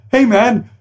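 high, laughing voice imitating the director; laughing retelling. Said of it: "and he goes".

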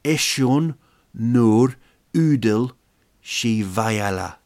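slow, punchy Armenian; Armenian phrase. Shown as a demonstration. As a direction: deliver Eshun nur udel slowly like a punchline. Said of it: "What you say to them is".

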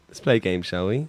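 low sinister invitation; creepy game host. Acted. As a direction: tempt them into the game.

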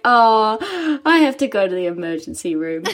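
words broken by a laugh; laughing through it. Retold or imitated. To her friend after falling down stairs, laughing. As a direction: giggle through the line, can't stop. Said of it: "I'm still laughing so hard".

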